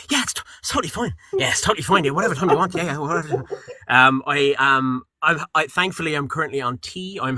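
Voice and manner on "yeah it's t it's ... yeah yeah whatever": breezy mock nonchalance. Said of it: "It's like me, me with my cup of coffee".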